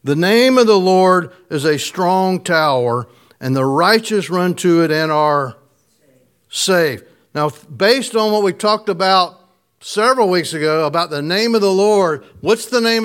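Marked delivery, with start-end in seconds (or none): 0.0-7.0 scripture reading. Real, not acted. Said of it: "says this".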